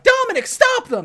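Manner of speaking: high, loud call to stop; shout. Retold or imitated. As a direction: yell for him to stop the fight. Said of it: "Mia that's like".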